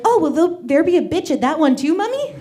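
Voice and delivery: put-on a sweet child asking innocently; innocent toddler. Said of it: "my sister from the back is like".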